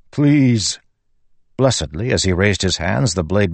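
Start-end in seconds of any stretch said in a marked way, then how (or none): 0.1-0.8 desperate. Acted. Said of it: "truly desperate".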